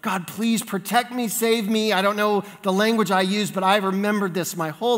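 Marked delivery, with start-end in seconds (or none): 0.0-1.9 higher-pitched plea for help; lightly acted begging to God; retold pleading prayer. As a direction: plead as a scared pupil, understated. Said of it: "this prayer that I prayed".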